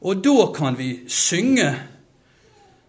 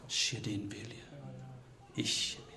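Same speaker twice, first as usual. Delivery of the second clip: slow, much softer, fading to a whisper; whispered surrender; 5 semitones lower, 15 dB quieter, slower than usual. Acted. Jesus surrendering to the Father's will, slow whisper. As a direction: yield in a slow, hushed whisper. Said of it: "så sier han tre ganger".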